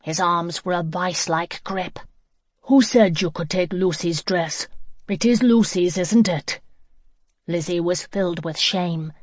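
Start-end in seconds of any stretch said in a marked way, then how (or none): 2.6-6.6 stern scolding. Acted. Angry man scolds the girl.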